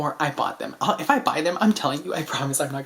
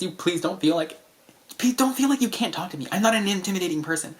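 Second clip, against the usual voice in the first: earnest plea; 4 semitones higher, 3 dB louder than usual. Real, not acted. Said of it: "pleads directly to viewers".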